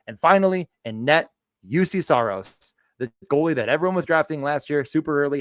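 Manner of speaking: punchy hype sports pitch; clickbait narrator. Acted. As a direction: sell every name like clickbait. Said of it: "can I actually pull off the clickbait voice".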